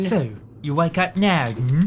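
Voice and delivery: put-on Russian accent. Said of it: "it's the Russian guy".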